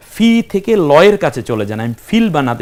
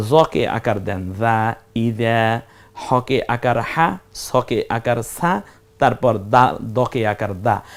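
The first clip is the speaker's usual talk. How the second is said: slow spelling aloud; 3 semitones lower, slower than usual. Shown as a demonstration. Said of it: "spells out syllables slowly".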